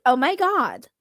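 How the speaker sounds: hint of a valley girl. Shown as a demonstration. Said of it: "do a Valley Girl voice".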